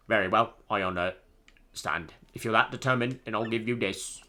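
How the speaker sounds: measured, mock British accent; awful British accent. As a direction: grant it solemnly in bad British. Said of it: "my awful British accent".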